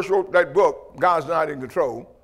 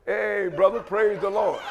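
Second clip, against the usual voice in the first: mock-wary greeting, a touch softer; cautious greeting; 4 dB quieter, slower than usual. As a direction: feel him out carefully, imitating a wary hello. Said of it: "you know, cautiously".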